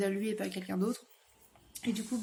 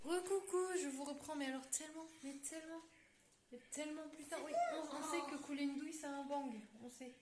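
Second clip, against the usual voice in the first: hushed late-night whisper; chuchoté; 4 semitones higher, 14 dB quieter than usual. Real, not acted. Late night, whispering so others sleep. (à voix basse)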